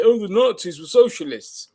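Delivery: mock conspiracy theorist voice; lightly voiced conspiracy crank; mocking quote. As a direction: parody the believer lightly. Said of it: "still believing shit like".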